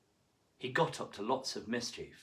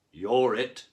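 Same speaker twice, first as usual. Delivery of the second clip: cried out; 9 dB louder than usual. A narrator's reading. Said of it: "cried a cod".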